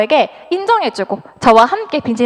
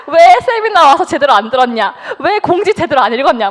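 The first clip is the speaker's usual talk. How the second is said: imitating mom's stern scolding, louder; retelling mom's scold at the daughter; mock scolding; 3 semitones higher, 4 dB louder than usual. Mother scolding her daughter.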